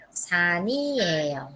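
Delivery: "Sa, ni, ye, yo" joined as sa-ni-e-yo; linked reading. Shown as a demonstration. Teacher showing students the joined reading, linked. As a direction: run Sa, ni, ye, yo into one word. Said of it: "así ustedes van a leer".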